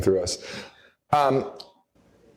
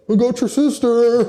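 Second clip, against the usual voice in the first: higher, louder gloating taunt; a hammed-up villain gloating over the sister; 12 semitones higher, 4 dB louder than usual. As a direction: crow it like a cartoon villain.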